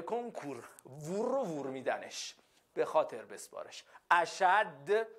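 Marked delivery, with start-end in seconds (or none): 4.1-5.1 اشد with a held, doubled d at the end; doubled final d. Shown as a demonstration. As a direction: lean hard on the final d of اشد. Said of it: "رو دالش تشدید داره".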